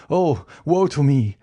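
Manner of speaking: whispered lament; despairing whisper. A narrator's reading. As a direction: breathe it out in despair. Villefort despairs before his enemy.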